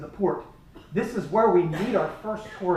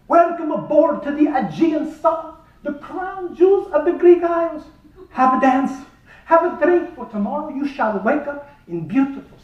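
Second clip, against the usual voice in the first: ship captain; 7 semitones higher, 5 dB louder than usual. Retold or imitated. Greek captain welcoming passengers aboard, loud and high, mock grand.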